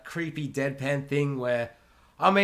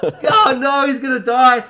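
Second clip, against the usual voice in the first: higher, louder laughing panic; mock panic; 11 semitones higher, 12 dB louder, slower than usual. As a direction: laugh through the dread. Panicked reaction to scene.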